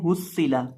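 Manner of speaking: हुस्सिला with a thin, light s; quick हुस्सिला, s left unthickened; common mispronunciation. Shown as a demonstration. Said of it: "अक्सर लोग इसको पढ़ देते हैं". (حُصِّلَ کو باریک سین سے "ہسّلا" پڑھنا)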